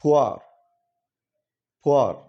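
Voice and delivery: teacher firmly modelling పువర్ with a falling glide; model pronunciation. Shown as a demonstration. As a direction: hit పువర్ with a "wa" glide, not a long oo. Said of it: "అంటే పూర్ అంటారు".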